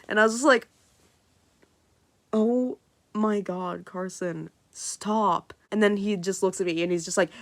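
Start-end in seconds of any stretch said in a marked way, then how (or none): 2.3-5.5 embarrassed protest. Retold or imitated. Embarrassed by name reveal.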